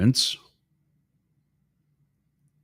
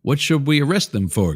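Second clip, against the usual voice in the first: higher, mock-polite British accent; 8 semitones higher, 4 dB louder than usual. Host quizzing the Texas governor in a mock British accent. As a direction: put on a British accent to ask the governor innocently. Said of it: "here's my British accent".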